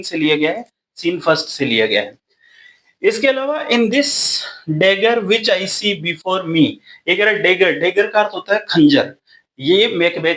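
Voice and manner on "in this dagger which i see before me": slow quote reading. Shown as a demonstration. Reading Macbeth line slowly.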